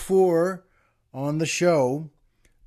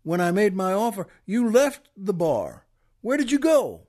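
curious Texan; 3 semitones higher than usual. Retold or imitated. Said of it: "the Texan then says".

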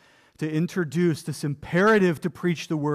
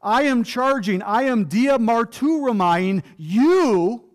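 Paul's solemn charge; 3 semitones higher, slower than usual. Acted. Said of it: "what Paul says here to Timothy is".

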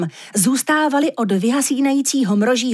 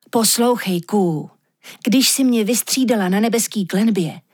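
lehce vyšší, naléhavý hlas soba, který vysvětluje; mírně naléhavý sob, vyprávěj o snech; sob Aurinko; 2 semitones higher than usual. Acted. (sob naléhavě vysvětluje lišce, co se mu zdálo, lehce vyšším hlasem)

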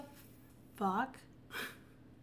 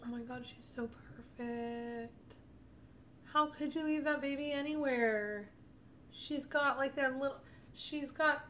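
infatuated; 4 semitones higher, slower than usual. Real, not acted. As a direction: melt over the photo, gushing. Gushing over the girl's photo.

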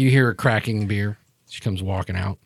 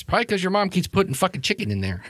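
Maureen; 8 semitones higher, 3 dB quieter, faster than usual. Acted. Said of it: "you hear Maureen's voice".

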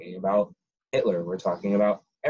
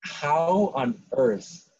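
incredulous; 4 semitones higher, slower than usual. Retold or imitated. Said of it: "you're like".

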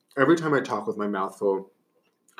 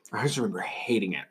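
breathy whisper, softer; 7 dB quieter than usual. Real, not acted. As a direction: drop to a whisper. Remembering hating vegan food.

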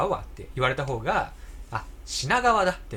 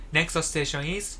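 put-on slow, careful Japanese-accented English; katakana English; 2 semitones higher, much slower than usual. Friend imitating the train's English announcement, slow and stilted. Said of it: "品川みたいな".

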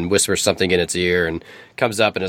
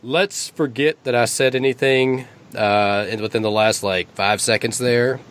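snake backpedaling; 3 semitones higher than usual. Acted. Snake backpedals after a slip.

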